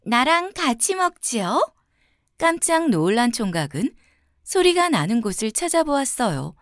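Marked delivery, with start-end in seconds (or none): 0.0-1.7 pretty voice. A narrator's reading. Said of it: "예쁜 목소리가 들려왔어요".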